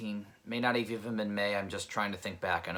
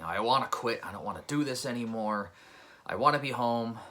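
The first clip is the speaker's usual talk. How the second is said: louder, fed-up cry of wanting to quit; frustrated outburst; 3 semitones higher, 4 dB louder than usual. Retold or imitated. Tired technician driving to last stop, frustrated outburst. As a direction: vent it like you've had enough.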